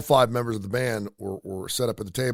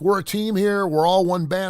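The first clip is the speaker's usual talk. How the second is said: imitating a singer's outburst, pitched higher and louder; mock enraged rocker; 8 semitones higher, 5 dB louder than usual. The singer, offended at the autograph, in a mock angry shout. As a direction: play the offended front man snapping at a fan. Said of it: "he just got so enraged".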